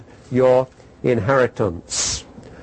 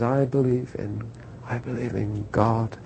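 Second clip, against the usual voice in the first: quiet, halting mock-tearful recital; tearful, hesitant; 5 dB quieter than usual. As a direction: falter softly through the creed. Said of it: "through his tears".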